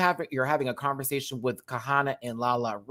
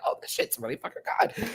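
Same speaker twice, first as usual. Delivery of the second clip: whisper; 4 dB quieter than usual. Retold or imitated. Quoting her own reaction.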